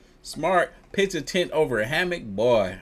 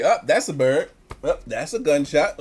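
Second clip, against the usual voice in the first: breezy, offhand imitation of her; mock casual; 2 semitones higher, 3 dB louder than usual. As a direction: toss it off like it's nothing. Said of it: "Just casually".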